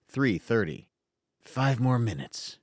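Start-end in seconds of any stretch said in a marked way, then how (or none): 1.4-2.6 a sleepy little groan. Acted. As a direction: groan it out, half asleep. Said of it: "he groaned".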